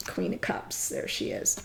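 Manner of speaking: hushed whisper as the card turns; awed whisper over the card. Real, not acted. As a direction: breathe it out in a whisper.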